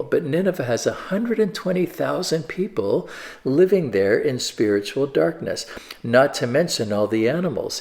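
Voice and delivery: a tender reading of God caring for Nineveh; caring God's voice. Shown as a demonstration. Preacher reading God's words to Nineveh with care. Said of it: "Hear the care in God's, um, words".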